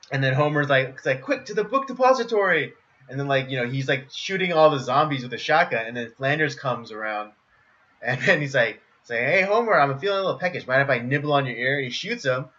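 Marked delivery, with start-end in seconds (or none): 1.2-2.7 excited Homer shout. Retold or imitated. Homer voiced, high excited. 9.2-11.8 zombie Flanders voice. Retold or imitated.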